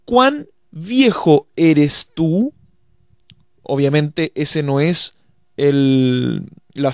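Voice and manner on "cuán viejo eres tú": slow literal gloss. Shown as a demonstration. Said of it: "si nosotros traducimos literalmente".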